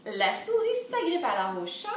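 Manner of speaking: measured, sing-song storybook reading; lilting story narration; children's storytelling. A narrator's reading. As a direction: read the chain to little ones.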